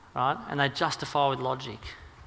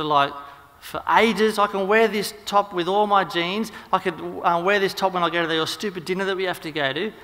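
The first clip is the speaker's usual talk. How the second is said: acted wife firing back, raised voice; indignant comeback; 3 semitones higher, 4 dB louder than usual. Wife fires back in acted quarrel.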